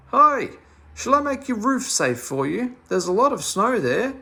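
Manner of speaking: a very loud, high shout through the letterbox. Acted. Meddle shouts through the letterbox at Father Flap, loud and high. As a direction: bellow through the door flap to be heard inside. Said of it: "shouted through it".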